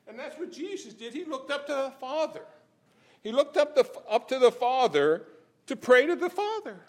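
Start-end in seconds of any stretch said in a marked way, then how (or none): none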